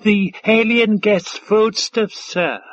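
high, slow servant voice; nervous waiter. A narrator's reading. Waiter presenting a tray to Five Tide, timid. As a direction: answer the master timidly, pitched high.

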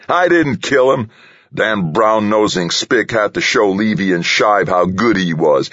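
high, heated self-defence; roaring. A narrator's reading. Delaney denies killing Pete, roaring in anger. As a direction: rant angrily, pitch pushed up. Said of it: "Delaney roared".

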